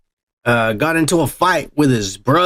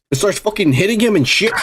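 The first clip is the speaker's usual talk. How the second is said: laughing through it; 2 semitones higher than usual. Real, not acted. Laughs while retelling fight.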